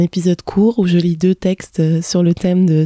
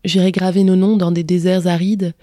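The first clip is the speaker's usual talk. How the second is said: poetic reading. Acted. Podcaster reading a text on a father's death, gentle poetic reading. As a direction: read it gently, as a poem of mourning. Reads her text on grief aloud.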